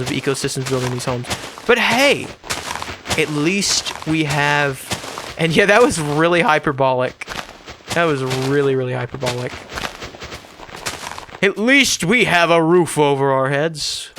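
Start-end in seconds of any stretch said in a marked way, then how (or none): 1.7-5.3 mock ad voice. Mock corporate ad voice. 11.4-14.1 slow, put-on advertiser voice; mock ad voice. Mock corporate ad voice.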